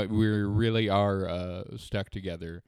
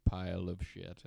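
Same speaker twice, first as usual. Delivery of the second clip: lips stretched wide; 2 semitones lower, 7 dB quieter than usual. Shown as a demonstration. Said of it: "pull your mouth apart".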